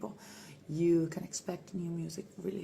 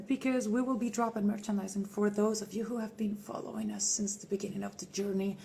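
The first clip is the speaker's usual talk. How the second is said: whispered thanks to loyal fans; intimate whisper. Acted. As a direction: lean in and whisper it.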